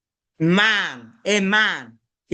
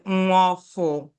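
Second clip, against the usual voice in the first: nwa ọfụ in Anambra dialect, f in place of h; slower than usual. Shown as a demonstration. Igbo teacher showing students a regional form, Anambra dialect. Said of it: "like some Anambra dialect".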